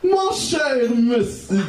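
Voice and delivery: slow, ceremonious greeting; politely drawn-out salutation; formal address. Acted. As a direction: address a gentleman, drawing it out.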